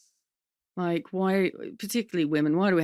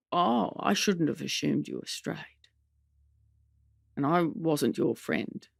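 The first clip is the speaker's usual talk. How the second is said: Mum's voice; 2 semitones lower than usual. Retold or imitated. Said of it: "committing to Mum's voice here".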